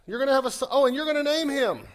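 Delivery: mock announcement of the birth; excited announcement. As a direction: burst out with the big news. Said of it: "God shows up and says".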